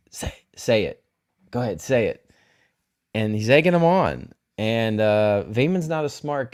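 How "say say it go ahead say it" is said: hushed, breathy dare under the breath; goading whisper. Retold or imitated. Daemon goading Vaemond to say it, in a whisper. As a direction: whisper it like egging someone on.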